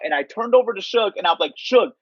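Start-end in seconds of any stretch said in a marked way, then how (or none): 1.5-1.9 mild mock yell. Yelling at Suge, retold.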